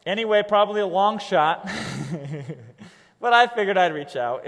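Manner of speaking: relaxed, offhand outreach message; casual conversational. Shown as a demonstration. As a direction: read it like a casual note. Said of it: "Very conversational".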